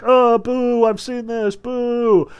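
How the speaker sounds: high, drawn-out mock booing; mock heckling. Heckler calling out the magicians, mock booing. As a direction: imitate a jeering audience member. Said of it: "immediately calls them out, like".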